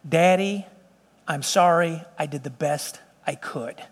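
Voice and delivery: put-on understated child's apology, trailing off softly; mild imitation of a crying daughter's apology; retold tearful apology. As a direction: retell a sorry child, halting and fading. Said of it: "she's crying".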